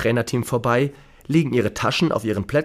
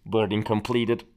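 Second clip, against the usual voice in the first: crackly pilot intercom; scratchy intercom announcement; 6 dB quieter than usual. Acted. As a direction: through a scratchy cockpit mic. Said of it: "kratzige Durchsage von der Pilotin". (kratzige Durchsage der Pilotin)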